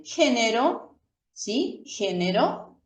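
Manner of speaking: "Género" con una r simple, suave. Shown as a demonstration. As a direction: tocar apenas la r de "Género". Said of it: "tiene un sonido más suave". (r simple en "Género")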